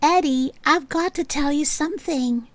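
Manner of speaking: soft, hushed and urgent; whispered. A narrator's reading. Melody whispering to Eddie as she enters the room. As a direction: keep it down, but urgent. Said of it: "Melody whispered".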